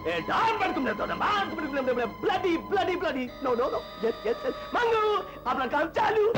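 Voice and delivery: mock jailer's showy English; imitating English-speaking jailer. Bandit showing schoolmaster how the jailer talked, imitating. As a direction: lightly act out a jailer rattling off orders. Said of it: "बड़ी धांसू अंग्रेजी बोलता था".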